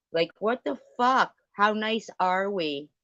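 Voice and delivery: high, loud incredulous what the fuck; exasperated outburst. Real, not acted. Venting to the chat about the silence, incredulous and loud. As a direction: blurt it out in disbelief.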